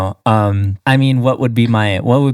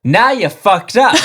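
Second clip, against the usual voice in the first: laughing catchphrase; 11 semitones higher than usual. Pretend.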